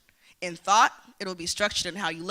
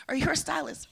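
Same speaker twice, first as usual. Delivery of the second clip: imitated question; 7 semitones higher than usual. Voicing people's dismissive questions.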